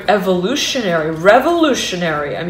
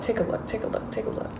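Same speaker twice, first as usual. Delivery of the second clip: trailing soft repeat; 3 semitones higher, 11 dB quieter, faster than usual. Real, not acted. Coaxing repetition.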